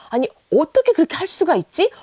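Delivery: high, disbelieving exclamation; can't believe they manage it; astonished. Shown as a demonstration. Teacher acts out amazed disbelief in Korean. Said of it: "감탄하듯이".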